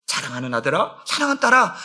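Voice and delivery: soft, low, tender address; tender call. Acted. God tenderly addressing his children, in a soft low voice. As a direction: speak gently to a beloved child.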